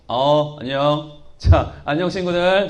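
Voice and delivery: low, slow puppet voice greeting; a deep, drawn-out hello from the puppet. Acted. Puppet Philip greeting the children in a low slow voice.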